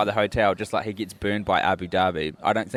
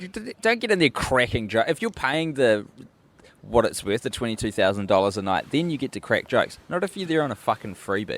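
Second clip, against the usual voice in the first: scolding hotel manager. Pretend. Manager scolding freeloading guest.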